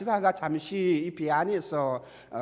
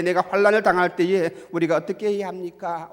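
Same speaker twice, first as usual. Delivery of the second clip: ordinary talk, nothing marked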